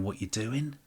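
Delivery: high incredulous fan voice; exaggerated puzzled fan imitation, pitching up; imitating confused fans. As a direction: mimic baffled fans. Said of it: "people started going".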